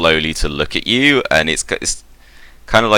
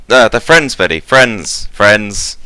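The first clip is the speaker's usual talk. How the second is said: raised, louder insistent plea; higher and insistent, stressing each repeat; urgent reassurance; 5 semitones higher, 6 dB louder than usual. Acted. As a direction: call off a robot before it strikes. Foreman hastily calming a threatening robot.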